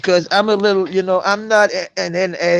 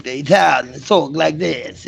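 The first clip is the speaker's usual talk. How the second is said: imitated New York Italian dialect; a touch of New York Italian; New York accent; 3 semitones lower than usual. Shown as a demonstration. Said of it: "a New York dialect".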